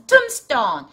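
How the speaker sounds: "tombstone" with the B left silent. Shown as a demonstration. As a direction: go straight from M to S in "tombstone". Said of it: "tomb는 비가 묵음이에요".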